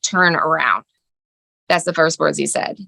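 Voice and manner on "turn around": low, flat, curt order; flat demand. Retold or imitated. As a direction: say it as a blunt command from the son. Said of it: "all of a sudden he's like".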